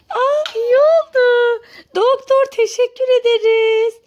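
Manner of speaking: put-on overjoyed that the baby is better; relieved joy. Mother thanking the doctor for healing baby, relieved joy.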